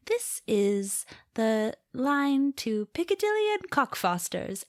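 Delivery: automated announcer voice. Retold or imitated. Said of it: "the automated voice lady would be like".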